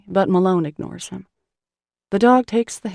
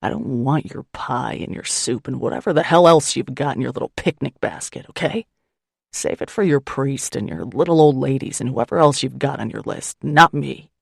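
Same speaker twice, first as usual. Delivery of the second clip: lower, bitter rising rant; angry man rejecting her basket, lower, louder at the end; surly gruff man; 4 semitones lower, 3 dB louder than usual. Acted. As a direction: push her away with contempt.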